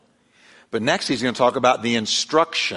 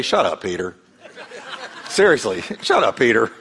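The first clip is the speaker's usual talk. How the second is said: laughing mock rebuke. Voice from heaven rebukes Peter.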